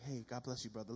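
softly, almost a whisper; quiet churchy whisper; whispered greeting. Retold or imitated. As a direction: hush it like a Sunday blessing. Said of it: "whisper on".

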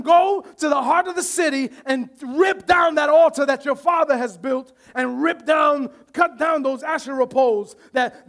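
preacher thundering God's order to Gideon; forceful preaching. Acted. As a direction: drive the command home. Preaching God's command loudly.

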